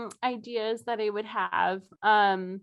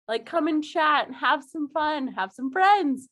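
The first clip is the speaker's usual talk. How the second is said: put-on Midwestern accent; 2 semitones higher than usual. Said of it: "borderline Canadian accent as aggressive".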